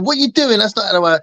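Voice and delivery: high-pitched imitation of an indignant partner; Lila. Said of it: "Lila's gonna be going".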